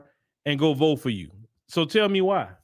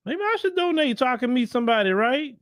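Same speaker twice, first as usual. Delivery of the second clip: higher, fast sarcastic musing; 6 semitones higher than usual. Pretend. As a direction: say it tongue in cheek. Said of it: "I'm being sarcastic".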